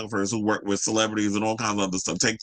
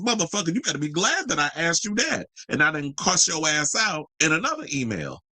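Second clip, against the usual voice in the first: much higher, indignant exclamation; exasperated outburst; 5 semitones higher than usual. Real, not acted. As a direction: snap back at his rude email. Ranting at curt email.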